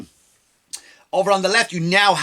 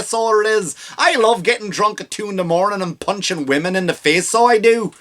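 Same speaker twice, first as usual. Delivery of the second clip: mock Irish accent; 3 semitones higher than usual. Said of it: "Like if she said".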